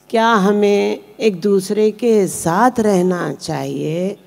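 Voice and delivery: measured ghazal recitation with pauses between phrases; poetry recitation. Acted. Poet reciting her ghazal to a mushaira audience, measured recitation. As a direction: recite each line deliberately, letting the refrain land.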